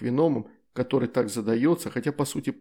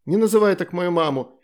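higher, louder angry outburst; angry child; 6 semitones higher, 6 dB louder than usual. Acted. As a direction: snap at him to defend mom. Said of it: "выпустила когти Астрид". (сердитый детский окрик)

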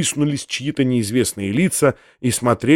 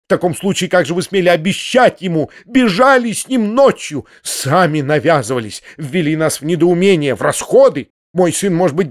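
angry accusations. Acted. Anfisa continues furious accusations.

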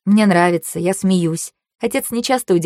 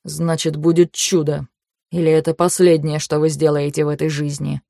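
cold; 2 semitones lower than usual. Acted. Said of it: "Голос дяди привычно холоден".

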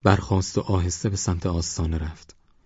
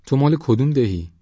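put-on higher, probing old man's question; curious; 7 semitones higher, 4 dB louder than usual. A narrator's reading. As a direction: ask with raised pitch, wanting to know. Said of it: "پیرمرد کنجکاو شد".

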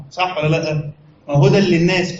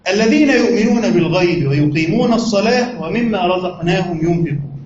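unhurried reverent verse reading; Quran recitation. Shown as a demonstration. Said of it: "قال الله عز وجل".

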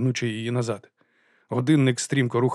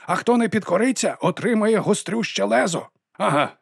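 high, loud gloating address to the crowd; triumphant villain; 10 semitones higher, 3 dB louder than usual. A narrator's reading. Mr White gloating to the auditors, high and loud. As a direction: preach the threat with a raised, ringing voice.

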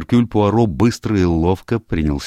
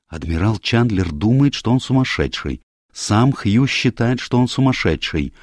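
higher, deliberate detective laying out points; lightly voiced Poirot; 6 semitones higher than usual. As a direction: stress each party's view.

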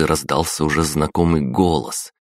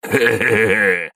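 slow, louder, higher mocking laugh; gloating slow heh-heh-heh; guffawing; 6 semitones higher, 3 dB louder, slower than usual. A narrator's reading. The brute laughs at the hurt prisoner, slow gloating guffaw. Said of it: "заржал бугай".

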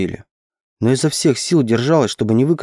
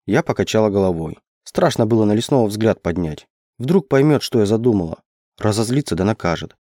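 plain reading voice

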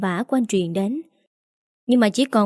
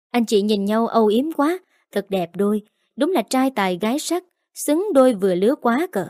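smug sarcasm. Acted. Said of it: "vênh váo, đắc ý".

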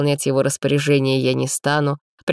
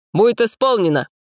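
much higher, louder, snappy; crisp military reply; 8 semitones higher, 4 dB louder than usual. A narrator's reading. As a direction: answer like a soldier to the khan. Police chief acknowledges order.

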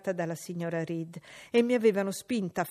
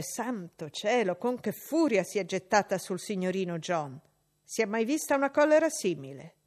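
scandalised exclamation, louder; shocked maid; 4 dB louder than usual. Acted. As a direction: gasp at the girl's fury.

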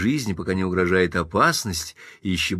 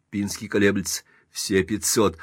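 plain reading voice

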